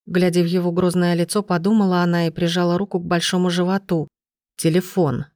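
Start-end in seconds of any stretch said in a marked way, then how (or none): none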